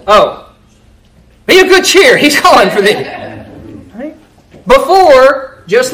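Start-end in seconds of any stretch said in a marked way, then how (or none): 0.1-3.0 hammed-up sweet disciples calling the beggar; sudden sweetness. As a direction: turn suddenly nice. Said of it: "that's a little bit different".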